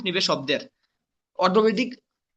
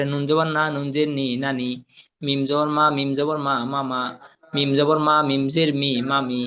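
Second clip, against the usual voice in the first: spelling drill recitation; 2 semitones lower than usual. Shown as a demonstration. Teacher drilling Arabic letters with vowel marks, chanted recitation. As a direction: recite it as a steady monotone drill.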